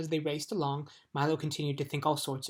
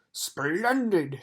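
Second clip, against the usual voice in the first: a louder hearty shout; loud delighted exclamation; 2 semitones higher, 7 dB louder than usual. Acted. Watchdog pleased by Milo's thanks, louder hearty shout. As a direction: boom out your approval. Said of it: "shouted the watchdog".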